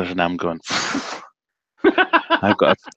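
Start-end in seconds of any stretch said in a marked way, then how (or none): 1.8-2.9 broad Scottish accent, hammed up for a viewer. Bragging about his big tanks to a Scottish viewer, in a put-on Scottish accent. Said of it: "Scottish accent, did it just for you".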